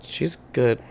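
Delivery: a pointed, meaningful "She's good."; loaded answer. Real, not acted. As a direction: say "She's good." with a knowing edge. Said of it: "Why do you say it like that?".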